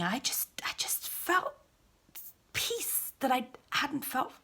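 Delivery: soft, breathy whisper; hushed awe. Acted. Woman recalls the peace she felt from him, whispering. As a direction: barely breathe it, overwhelmed.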